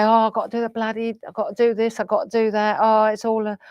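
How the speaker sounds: fast, fed-up mock grumble; grumbling moan. Mimicking a resentful self moaning about chores, hurried and exasperated. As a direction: rattle off the chores like a put-upon moaner. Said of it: "you can say".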